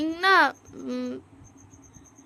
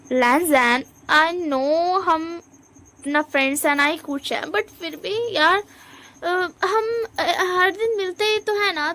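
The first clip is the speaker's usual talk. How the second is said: whiny plea; 4 semitones higher, slower than usual. Acted. Wing whines to Lanjan.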